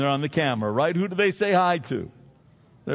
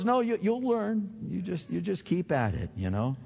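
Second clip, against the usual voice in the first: reassuring wife; 3 dB quieter than usual. Retold or imitated. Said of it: "She goes".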